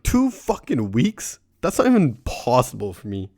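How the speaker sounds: hammed-up shocked whine; mock disbelief. Stoner retells doctor's news.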